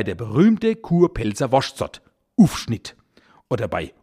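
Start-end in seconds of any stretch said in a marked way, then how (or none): 2.4-3.0 "Ufschnitt" with U for Au, whispered. Shown as a demonstration. Teaching the dialect, whispers "Ufschnitt" with U for Au. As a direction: whisper "Ufschnitt", Au turned into a plain U. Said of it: "Ganz oft wird das Au durch ein U ersetzt".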